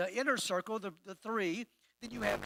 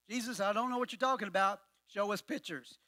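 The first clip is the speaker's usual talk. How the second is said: confused paraphrase. Retold or imitated.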